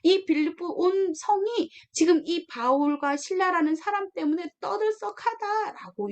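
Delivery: masters accusing Paul before the officials, indignant; accusing complaint. Retold or imitated. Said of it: "이렇게 막 하는 거예요".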